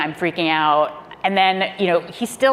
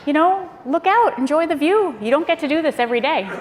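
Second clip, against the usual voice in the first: kindly president; 10 semitones higher than usual. Retold or imitated. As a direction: lift the voice up high and easy, like a gentle imitation. President in helicopter telling her.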